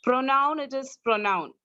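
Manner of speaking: "pronoun" with a clear NOW sound in the second syllable; demonstrated pronunciation. Shown as a demonstration. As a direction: model "pronoun", stretching the "noun" part. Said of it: "when you're saying that".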